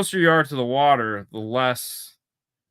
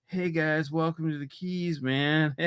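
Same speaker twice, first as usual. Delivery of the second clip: imitating Keys local; 5 semitones higher than usual. Imitating a laid-back Keys local.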